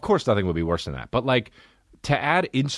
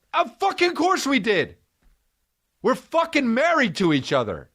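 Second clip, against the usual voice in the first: high, yelling defendant, furious and indignant; imagined courtroom outburst. Pretend. Wrongly accused man yelling at the court, furious. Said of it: "And I would be like".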